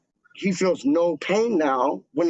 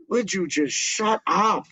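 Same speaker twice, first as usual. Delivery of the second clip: slow, higher-pitched mock exasperation; retold telling-off, pitched up; imitated exasperated dad; 5 semitones higher, slower than usual. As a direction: act out a fed-up dad, drawing it out.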